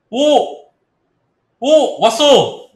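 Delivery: loud high cheer; excited shouting. Real, not acted. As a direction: whoop with joy at the win. Price jumps, shouting in joy.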